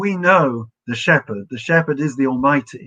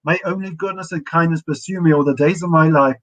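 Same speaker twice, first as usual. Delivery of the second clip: psalm recitation; 2 semitones higher than usual. Acted. Rabbi leading his students in reading Psalm twenty-three, reverent recitation. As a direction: lift each line like a prayer.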